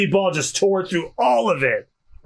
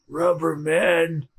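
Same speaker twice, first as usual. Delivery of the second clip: slow, drawn-out last words; barely conscious; much slower than usual. Acted. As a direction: drag the words out weakly. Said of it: "Moji is still conscious".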